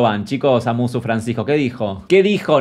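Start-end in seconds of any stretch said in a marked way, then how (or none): 2.1-2.6 higher, insistent repeat of the question; insistent demand. Real, not acted. Streamer won't keep talking until answered, insistent. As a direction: demand to know what was said.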